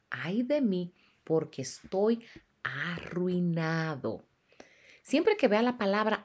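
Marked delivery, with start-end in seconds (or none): 0.1-4.2 slow, drawn-out woe, mildly acted; solemn retold lament. Preacher quoting Isaiah before God's holiness, solemn lament. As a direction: quote a prophet's ruin with heavy, lingering words.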